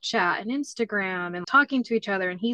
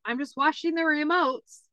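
higher, innocent little voice; innocent kid; 7 semitones higher than usual. Retold or imitated. Son explaining to dad, light innocent kid voice. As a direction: answer as if nothing's wrong.

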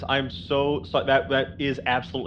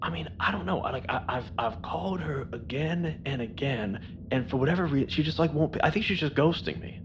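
muffled male voice; 3 semitones higher, 4 dB quieter than usual. Acted. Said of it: "the male voice just going".

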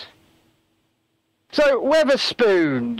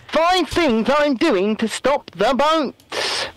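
mock Rishi; 5 semitones higher, much slower than usual. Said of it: "my best Rishi impression".

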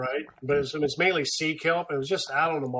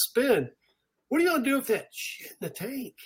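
mock alarmed colleague; 9 semitones higher than usual. Colleague Chris voiced in story.

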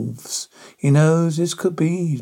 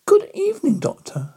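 Dracula voice. A narrator's reading. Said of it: "said Count Dracula, his eyes gleaming with malice".

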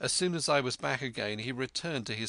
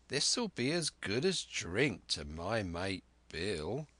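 put-on sly old pirate; slower than usual. Black Dog voiced in story.

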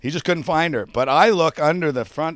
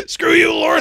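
high, loud mock yell at Lord; shouting an insult from the ditch, hammed-up; 11 dB louder than usual.

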